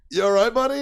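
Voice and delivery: mock concerned MP. Gate MP asking the doodled passenger, mock concerned. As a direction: play the gate guard stifling a laugh.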